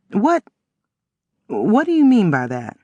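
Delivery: high startled stammer; surprised. A narrator's reading. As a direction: catch herself, surprised. Startled girl on phone.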